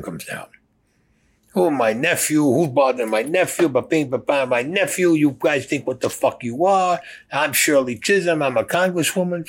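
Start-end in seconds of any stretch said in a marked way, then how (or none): 1.6-9.5 indignant congresswoman. Retold or imitated. Shirley Chisholm defending her nephew at the club, high indignant voice. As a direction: play her up as an outraged aunt.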